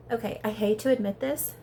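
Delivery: measured lead-in to a confession; mildly reluctant concession; reluctant admission. Real, not acted. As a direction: admit it grudgingly, rising at the end. First, milder reluctant admission.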